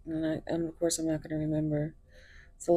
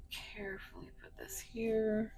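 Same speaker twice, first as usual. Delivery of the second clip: whispering; 4 semitones higher, 7 dB quieter than usual. Real, not acted. Whispered aside while arranging cards.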